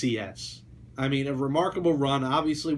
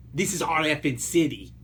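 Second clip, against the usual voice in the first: put-on voice of a famous slugger; David Ortiz. Podcast host quoting a slugger's speech to Boston, in impression. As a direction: impersonate the ballplayer's rallying quote. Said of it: "That's my David Ortiz impression".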